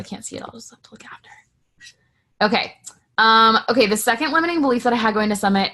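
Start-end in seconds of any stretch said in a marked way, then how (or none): 0.0-1.3 murmured under her breath to herself; whispered aside. Real, not acted. Whispering to herself because she can't see the chat. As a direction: whisper it as a note to self. Aside while screen is shared.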